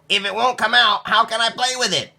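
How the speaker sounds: put-on high, pleading boy's voice; a disappointed child asking; high whiny child; young Nicholas. A narrator's reading.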